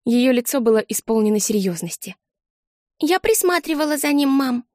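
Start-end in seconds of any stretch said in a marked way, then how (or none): 3.0-4.6 higher, lightly voiced earnest little girl; little girl announcing. A narrator's reading. Small sister reporting to mother, earnest child voice. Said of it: "объявила она".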